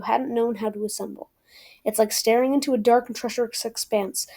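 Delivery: unhurried read-aloud of a novel passage; plain book-reading voice. Acted. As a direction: read it like a favourite quote. Reads a quoted passage aloud.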